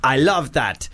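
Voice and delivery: a light put-on Arabic accent, pitched a bit up. Radio host reading a listener's email in a mock Arabic accent. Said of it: "That was, uh, an Arabian accent".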